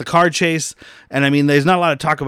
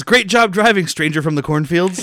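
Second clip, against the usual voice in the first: mock quip; 4 semitones higher than usual. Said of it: "another thing he says is".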